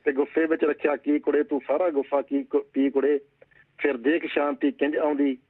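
steady recited verse, lines repeated; poem recital. Acted. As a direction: recite the couplet like a poet on stage. (ਕਵਿਤਾ ਪਾਠ ਦੇ ਅੰਦਾਜ਼ ਵਿੱਚ)

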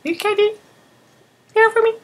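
very high cooing pet voice. Real, not acted. Baby talk to cat.

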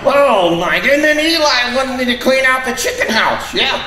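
high, squeaky puppet voice; squeaky ventriloquist dummy. Acted.

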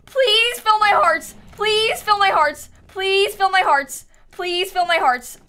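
slow, drawn-out begging, easing off; desperate pleading. Real, not acted. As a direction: plead for your life, stretching the words. Begging game to restore health.

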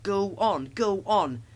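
high, loud taunting chant; goading trucks. A narrator's reading. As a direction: egg the engine on noisily. Unruly trucks egging Thomas on.

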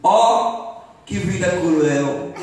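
hammed-up woe; gloomy complaint. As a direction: bemoan it as a mock misery-guts. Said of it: "o mundo e a vida são horríveis".

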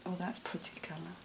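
quick, soft whisper; awed whisper. Real, not acted. Admiring a colour, fast soft whisper. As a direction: murmur it under your breath in delight.

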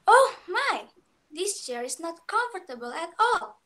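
high surprised "Oh my", then complaining; startled exclamation that drops into a grumble; exclaimed. A narrator's reading. Goldilocks finds the big chair uncomfortable, high surprised exclamation. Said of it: "she exclaimed".

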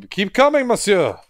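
high, theatrical menacing villain; Phantom of the Opera. Acted. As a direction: ham it up like a stage phantom. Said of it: "I'm quoting Phantom of the Opera".

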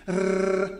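R rolled at the teeth; rolled R for comparison; plain rolled R demo. Shown as a demonstration. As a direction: contrast take with the R rolled further forward. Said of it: "well, that is not this".

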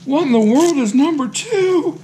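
high, loud mock disbelief; hammed-up high-pitched incredulity; imagined viewer's amazement. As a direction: act out an astonished viewer, pitch soaring. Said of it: "This, you're gonna say".

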